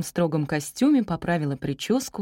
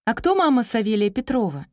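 higher, cheery question; a touch of pep in asking; brisk and cheery; 5 semitones higher, 4 dB louder than usual. A narrator's reading. Teacher looking for a pupil's parent, cheery. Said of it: "бодро спросила Татьяна Борисовна".

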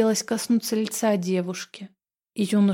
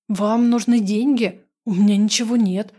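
panicked frantic pleading; 5 dB louder than usual. Acted. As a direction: beg for mercy in panic. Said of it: "в панике закричала я".

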